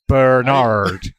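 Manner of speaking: "Bernard" as American bur-NARD, drawn out; "Bernard" slowly, stressed on NARD. Retold or imitated. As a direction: mimic American "Bernard" with hard Rs. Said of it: "You say".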